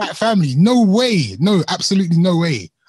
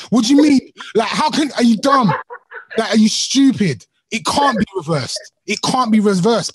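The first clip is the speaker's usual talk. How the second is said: raised, outraged disbelief; incredulous anger; 2 semitones higher than usual. Pretend. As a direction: tear into him, appalled. Acted angry rant at boyfriend.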